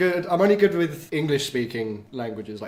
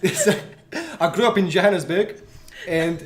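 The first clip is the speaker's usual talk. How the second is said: put-on South African accent; 2 semitones higher than usual. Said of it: "Will you do the rest of the podcast in South African?".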